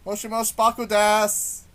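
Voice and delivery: loud put-on Japanese phrase; fake Japanese. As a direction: blurt out a botched Japanese greeting. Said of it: "I totally messed up my fake Japanese there".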